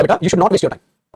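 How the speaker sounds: slow, drawn-out telling-off; slow scolding. Shown as a demonstration. Teacher slowly scolding a student who wastes time. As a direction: stretch every word out slowly like a teacher scolding. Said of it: "जैसे बच्चे को डांटा था".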